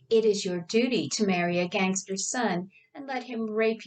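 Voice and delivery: "It is your duty" pushed into an exaggerated, stereotyped Chinese accent; bad Chinese accent. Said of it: "her voice becoming more stereotypical, bad Chinese accented".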